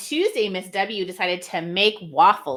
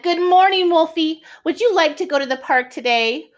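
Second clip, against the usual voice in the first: much higher, louder cheerful lady voice; Miss W voice; 8 semitones higher, 4 dB louder than usual. Acted. Miss W greets Wolfie in the morning, high cheerful voice. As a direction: greet the dog brightly.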